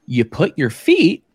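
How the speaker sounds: slow, emphatic retort rising high and loud; incredulous explaining. Retold or imitated. Storyteller retelling his answer to the actor's basic riding question, incredulous. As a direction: spell out the obvious, drawn out, with a long pause.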